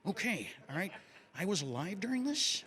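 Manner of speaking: a hint of a doddering old-timer questioning himself; mildly puzzled, unsure voice; lightly voiced confused old man.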